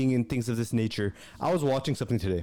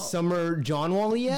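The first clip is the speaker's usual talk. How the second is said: slow, higher imitation of an Indian accent; mock Indian accent; 4 semitones higher, much slower than usual. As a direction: mimic the dealership girl's Indian accent. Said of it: "that brown girl at the dealership".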